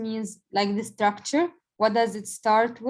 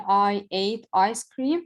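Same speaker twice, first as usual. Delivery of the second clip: slow example read; slower than usual. Shown as a demonstration. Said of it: "when I gave you the example".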